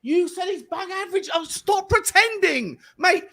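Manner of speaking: exasperated outburst. Real, not acted. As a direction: drag out the frustration. Heated argument over past opinions.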